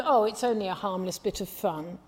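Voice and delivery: airy, shrugging mock tone on harmless bit of fun; mock dismissive. Preacher mimicking those who excuse the occult, airy and shrugging. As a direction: toss it off like people who shrug off danger.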